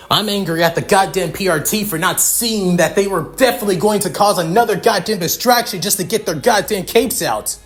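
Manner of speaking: loud, high, escalating tirade; worked-up grief-fuelled fury, hammering the curses; furious rant. Acted. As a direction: rage through the list, pitch climbing as it builds. Character rages over father's killing.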